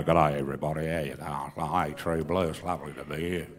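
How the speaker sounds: channel an Australian country singer's easygoing country twang; hammed-up laid-back Aussie country singer voice; country singer impression. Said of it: "a country singer size it".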